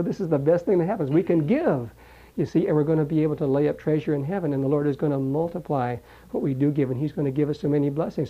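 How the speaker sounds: excited chatter. Retold or imitated. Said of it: "They got excited".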